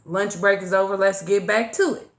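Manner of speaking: dismissive. Retold or imitated. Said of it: "took it with a grain of salt".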